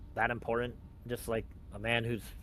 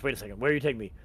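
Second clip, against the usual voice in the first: mildly annoyed, pitch rising; irritated questions building in volume; annoyed questioning; 3 semitones higher, faster than usual. Acted. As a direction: demand answers, more annoyed than afraid. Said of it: "more annoyed than afraid".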